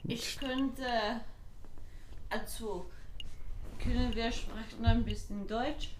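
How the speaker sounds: speaking German; German speech. Acted. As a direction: switch into German. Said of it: "my terrible German accent".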